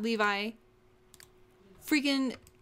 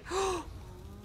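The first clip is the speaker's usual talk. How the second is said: soft gasp of alarm; quiet, startled intake; shocked gasp; 6 dB quieter than usual. Real, not acted. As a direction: gasp as if disaster struck. Character about to die.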